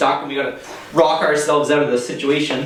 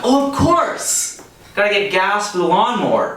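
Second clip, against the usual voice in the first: mock eureka, pitched way up; sudden realisation; 7 semitones higher than usual. Storyteller acting out his dawning realisation at the gas station, mock eureka.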